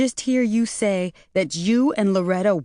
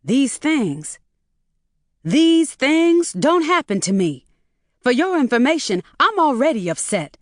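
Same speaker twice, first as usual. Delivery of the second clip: high, loud furious shriek; 8 semitones higher, 4 dB louder than usual. A narrator's reading. Mother shrieks down the phone at son-in-law. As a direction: scream at them, losing it. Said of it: "Maureen shrieked".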